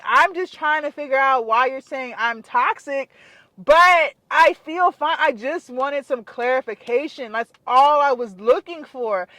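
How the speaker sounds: re-enacting an earnest, civil appeal; not rude. Patient asks doctor for clarification, not rude. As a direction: plead your case politely, with emphatic key words. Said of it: "I wasn't being rude or anything".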